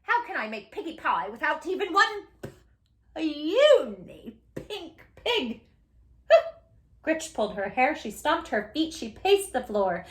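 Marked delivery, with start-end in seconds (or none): 0.0-5.6 distraught witch. Acted. Witch panics over no piggies.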